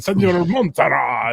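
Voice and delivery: high, loud pompous name with a laugh; mock medieval. Quoting the funny D and D skit, mock-medieval pomp. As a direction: spoof a grand fantasy name. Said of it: "make them sound medieval".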